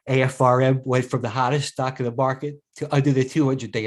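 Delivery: talking through a yawn. Real, not acted. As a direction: yawn mid-sentence while talking. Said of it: "I'm sorry, I'm yawning".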